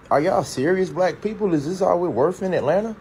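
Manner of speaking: high-pitched, incredulous challenge; indignant disbelief. Real, not acted. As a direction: call out your own people in disbelief. Indignant challenge to the crowd's reaction.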